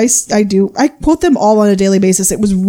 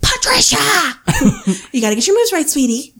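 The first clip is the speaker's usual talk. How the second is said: retold scream; 7 semitones higher, faster than usual. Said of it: "when he screams".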